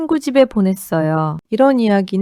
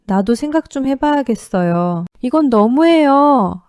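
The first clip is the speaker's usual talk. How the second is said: angry outburst; 3 semitones higher than usual. Acted. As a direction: let the anger build on 너무해요. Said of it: "라며 화를 냈습니다". (점점 격해지며 화내듯이)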